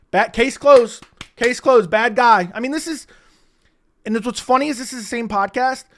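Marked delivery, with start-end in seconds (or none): 0.1-2.5 mock verdict. Mocking Dana's verdict.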